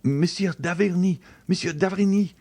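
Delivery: high, stifled cry for the doctor. A narrator's reading. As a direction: call out choked with fear. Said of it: "cried she in a stifled voice".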